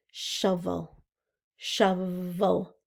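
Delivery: Shovel split into shov and el; syllable split. Shown as a demonstration. Teacher to kids, counting syllables. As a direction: beat out Shovel. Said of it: "Oh, shovel".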